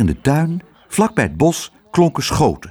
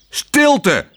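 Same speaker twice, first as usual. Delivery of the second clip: luide, hoge uitroep; bulderend; 4 dB louder than usual. A narrator's reading. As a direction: brul de vogels stil. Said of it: "bulderde Tos". (Tos brult tegen de vogels om stilte)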